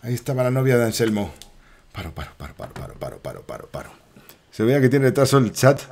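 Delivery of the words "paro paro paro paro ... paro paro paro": hushed repetition. Real, not acted. Se calma tras el susto.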